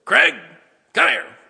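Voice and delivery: mock mother yelling high and loud; mother calling. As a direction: call him like an annoyed mom across the house. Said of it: "when my mother used to say".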